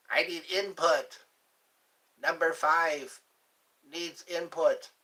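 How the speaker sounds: lightly voiced robot demanding input; Number Five. Quoting Short Circuit to listeners, a lightly voiced movie robot. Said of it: "Short Circuit".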